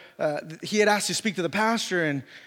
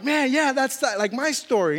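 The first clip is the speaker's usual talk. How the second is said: excited retelling, pitch raised; pumped up; 5 semitones higher than usual. Retold or imitated. Preacher recalling his reaction to the convert's testimony, pumped. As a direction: jump in eagerly, higher than usual. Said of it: "I'm, like, pumped".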